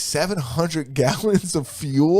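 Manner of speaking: slowly repeating "Seven hundred gallons of fuel?" in laughing disbelief; stunned disbelief. Retold or imitated. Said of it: "Was it gallons or pounds?".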